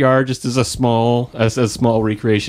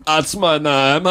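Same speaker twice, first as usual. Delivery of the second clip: slow, deadpan soap-opera delivery; soap-opera line; 4 semitones higher, much slower than usual. Acted. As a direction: drop the line slowly like a soap reveal. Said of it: "the Californians".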